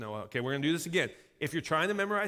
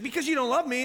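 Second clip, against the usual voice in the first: high, loud mock protest from a kid; whiny six-year-old; 8 semitones higher, 6 dB louder, faster than usual. Son talking back to dad's warning, imitated childish whine. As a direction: pitch it up like a hurt little boy. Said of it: "I have a six-year-old".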